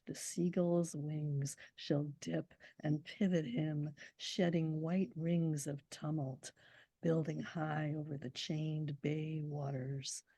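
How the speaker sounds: very slow, deliberate recital; poem recital. Shown as a demonstration. Poet repeating the proem for the audience, slow and deliberate. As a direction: stretch every phrase like a tolling bell. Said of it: "I'm gonna do it for this".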